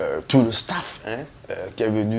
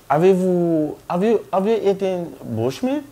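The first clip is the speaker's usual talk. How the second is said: nurse in broken French; 8 semitones higher than usual. Retold or imitated.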